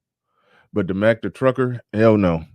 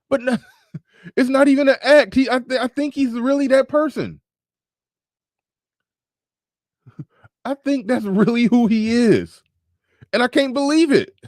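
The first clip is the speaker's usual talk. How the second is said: laughing disbelief; 14 semitones higher than usual. Real, not acted.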